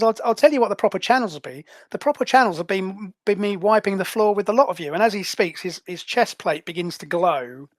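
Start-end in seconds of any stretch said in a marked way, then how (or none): 0.0-4.9 menacing threat. Acted. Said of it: "he says".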